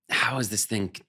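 mildly exasperated mock disbelief, drawn out; slow, lightly acted exasperation. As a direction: imitate baffled critics, slowly. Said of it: "like, exasperated".

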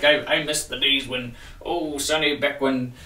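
lightly voiced nostalgic old-timer. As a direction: reminisce like a grumpy old gamer. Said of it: "I know I sound old here".

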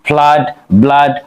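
ফ্লাড, ব্লাড said slowly with a clear short a vowel; drawn out so students hear the a sound in ফ্লাড and ব্লাড; slow model words. Shown as a demonstration. Teacher to students, modelling the vowel in ফ্লাড and ব্লাড slowly. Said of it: "যেমন এখানে দেখতে পাচ্ছি".

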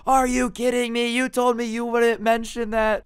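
high, loud, indignant squeal; whiny outraged teen. Retold or imitated. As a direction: play the brat who just got burned, shrieking. Jared outraged after dad roast.

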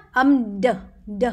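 "d" released as a short "duh"; teacher's clear, separate "d"; isolated end sound. Shown as a demonstration. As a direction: sound out the final d by itself. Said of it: "lại âm đuôi nhá".

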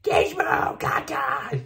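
high squeaky gremlin chatter; squeaky gleeful gremlin giggle. Retold or imitated. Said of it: "They do, like".

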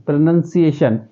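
प्रोनंसिएशन said again as pro-nun-si-ation, short nun; correct pronunciation. Shown as a demonstration. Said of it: "प्रोनाउंसिएशन नहीं है".

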